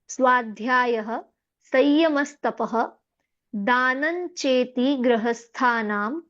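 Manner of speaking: slow, drawn-out Sanskrit verse recitation; slow careful recitation. Shown as a demonstration. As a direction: recite line by line, slowly, stretching the long vowels. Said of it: "मैं धीरे धीरे पढ़ती हूँ".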